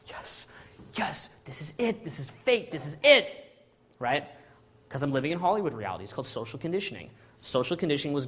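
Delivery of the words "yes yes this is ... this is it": private triumph. Retold or imitated. After getting her number.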